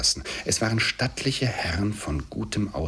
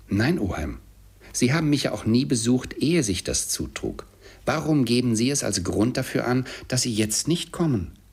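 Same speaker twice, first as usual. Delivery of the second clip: put-on higher, animated young relative protesting; pleading nephew; 7 semitones higher, 3 dB louder than usual. A narrator's reading. Nephew challenges his uncle's excuse, pleading. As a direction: reason with him urgently.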